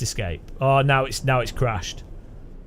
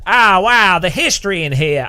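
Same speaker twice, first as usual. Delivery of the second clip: imitated American awe; 6 dB louder than usual. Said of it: "no, they're like".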